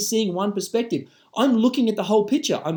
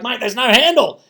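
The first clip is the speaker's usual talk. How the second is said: loud exasperated comeback; emphatic, insistent denial; acted argument; 3 semitones higher, 4 dB louder than usual. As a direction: argue back loudly, mock quarrel. Acted argument over the glass.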